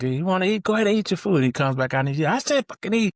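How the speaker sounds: high, loud yelled order; drill instructor yelling. Retold or imitated. Drill instructor ordering recruits to eat, yelling high. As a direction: yell it like a furious drill instructor. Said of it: "And he's like".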